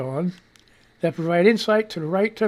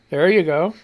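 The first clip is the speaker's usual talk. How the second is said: sarcastic. Real, not acted. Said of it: "that's sarcasm in my voice".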